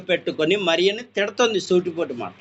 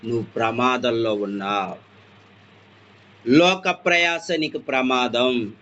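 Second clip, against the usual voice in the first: Jesus warning; 9 semitones lower than usual. Acted. Jesus warning Martha she is in danger, low and slow. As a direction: warn her gravely, hushed and slow. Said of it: "ఎందుకు పిలుస్తున్నాడు చెప్పనా?".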